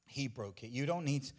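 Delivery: preacher spent and breathless after shouting; out of breath. Real, not acted. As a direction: let the breath run out on the words. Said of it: "I'm out of breath".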